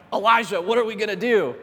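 lightly acted freak-out, voice lifted; mock-panicked plea for direction; freaking-out servant. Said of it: "the servant's freaking out".

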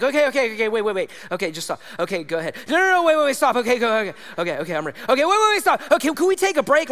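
lightly acted child begging for a pause; mock panic. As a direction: stall anxiously, jumping between readiness and panic. Child panicking over earring removal.

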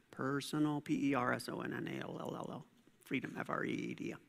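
quiet, spelled-out dictation for note-takers; dictating. Shown as a demonstration. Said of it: "I went too fast".

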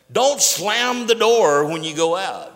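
acted parent's loud warning; parent scolding kids. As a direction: call it out high and loud to the kids. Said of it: "You remember saying that to the kids".

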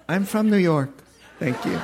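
lightly put-on New York accent. Preacher showing how we talk when angry, New York accent. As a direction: play a mean New Yorker, lightly. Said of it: "we go to the South or to New York".

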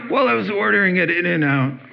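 high, fast offhand bragging; breezy showoff tone; mock casual boast. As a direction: toss it off like it's nothing. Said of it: "What did you do today".

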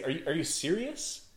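incredulous objection. Retold or imitated. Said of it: "you almost want to stop and say".

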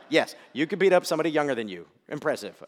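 dry mock praise; sarcastic dad teasing son. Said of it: "That's sarcasm".

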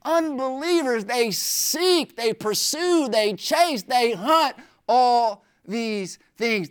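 SEEK, PURSUE, CHASE, HUNT each stretched and stressed; extra stress. Acted. Preacher showing the congregation Jesus' emphatic verb, extra stress. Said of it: "he's putting extra stress".

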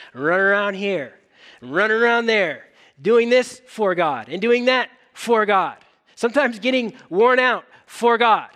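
a mock reproach that builds until it is nearly shouted; mock self-rebuke, building. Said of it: "I want to say to myself".

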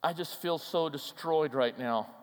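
soft, sinking voice of someone destroyed; subdued, fading despair; acted devastation. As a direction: say it quietly, as if crushed. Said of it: "could have been something like this".

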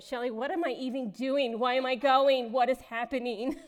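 retold panic. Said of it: "I went".

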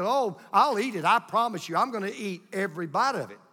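put-on mildly excited, insistent kid; eager promise. Retold boy's eager promise to grandpa.

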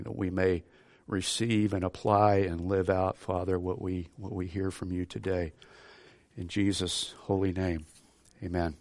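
earnest pastoral prayer voice. Acted. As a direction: pray it reverently to God. Preacher leads opening prayer.

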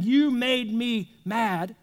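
slow blaming accusation. Retold or imitated. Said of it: "Instead of going and saying".

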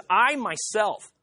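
"I myself" slow and deliberate; very emphatic. Acted. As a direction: draw out "I myself" with weight. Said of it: "He's very emphatic".

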